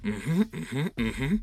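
high, rising hums of assent; coaxing agreement. Pretend. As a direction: hum yes repeatedly, up high. Master nods, luring the kobold.

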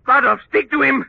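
high loud frantic pleading; desperate shout. Acted. Villain begs the dead henchman to calm the dog, frantic shout. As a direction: shout in terror for help.

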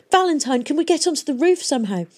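high, fast urgent plea. A narrator's reading. Hester urgently asking Valentine about the roof. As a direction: press him for a way up.

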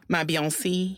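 a singer's name ending in a long "see". Shown as a demonstration. Echoing the host's joke, the singer's name ending in "see".

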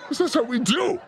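talking through laughter; laughing. Real, not acted. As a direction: chuckle through the line. Laughing while explaining.

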